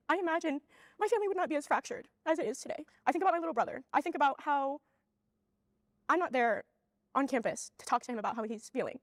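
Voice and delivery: really crying, halting between phrases; tearful. Real, not acted. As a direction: keep talking through the tears. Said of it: "instead of seeing my tears".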